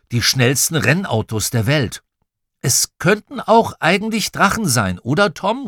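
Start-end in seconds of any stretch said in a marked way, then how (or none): 2.6-5.7 high-pitched call to a brother; child calling over noise, pitched up. A narrator's reading. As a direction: call it across while racing along. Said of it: "rief ich Tom".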